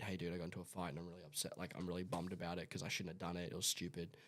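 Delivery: low, soft and quick admission; acted-out quiet confession to a friend; confiding in a mate.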